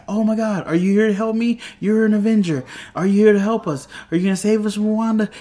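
high, urgent retold plea; excited pleading. Woman begging an Avenger for help, excited and pleading. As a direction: raise the pitch and plead eagerly for rescue.

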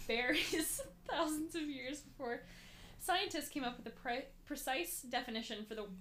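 hiccuping while reading; reading through hiccups. Real, not acted. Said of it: "I have the hiccups".

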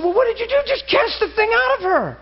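high, matter-of-fact insistence; a young believer's quick fix; brash command. Retold or imitated. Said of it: "I said".

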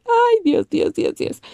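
high scared gasp fading to mutter; mild panic. Retold or imitated. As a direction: panic under your breath. Scared reaction to threats. (Ay Dios asustada, bajando a murmullo)

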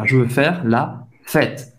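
"Je veux faire la fête" said low and slow; French phrase, slowly. Shown as a demonstration. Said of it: "Isso que queria dizer". (francês devagar)

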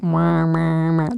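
voiced ambulance wail; imitated siren. Storyteller mimics the hospital truck coming, siren imitation. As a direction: wah like an arriving siren. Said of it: "So when the alarm".

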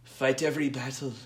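tentative, badly faked character voice; a hint of an uncertain put-on accent; Littlefinger. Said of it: "I apologize here for my Littlefinger".

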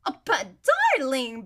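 heedless, mildly loud protest; a touch loud and careless. Acted. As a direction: start to object without lowering your voice. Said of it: "in the same loud voice".

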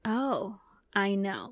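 easy, settled "oh, I know"; just know it, no alarm; calm knowing. Retold or imitated. Explaining intuition to listeners, calmly sure. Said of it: "but a".

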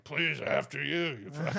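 slow, sarcastic "after you"; mock-polite, drawn out; sarcastic politeness. Mock politeness to barging coach.

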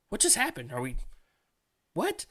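high, baffled mock question; confused disbelief. Recruits left behind with bags, high baffled disbelief. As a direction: act stunned and lost, pitch climbing. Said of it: "holding our bags like".

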